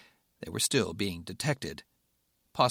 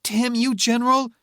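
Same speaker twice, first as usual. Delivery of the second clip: furious shout; 12 semitones higher, 8 dB louder than usual. Acted. Rebecca furious at Patrick.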